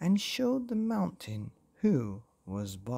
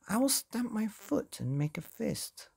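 higher-pitched voice of an indignant character; indignant threat; 9 semitones higher than usual. A narrator's reading. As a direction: read a petulant threat, pitched well up. Fausto threatens the sea.

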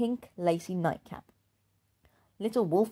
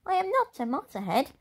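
holding back tears; 10 semitones higher than usual. Acted. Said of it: "fighting back the tears".

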